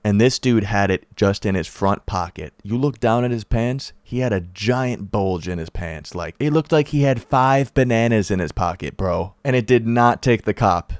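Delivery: normal talking voice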